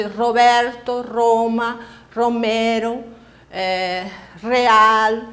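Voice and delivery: "Roberto", "Roma", "Romero", "Real" with strong trilled R; teacher demo of the Spanish trilled R; rolled initial R. Shown as a demonstration. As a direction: roll every opening R. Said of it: "vamos usar la R sempre al principio".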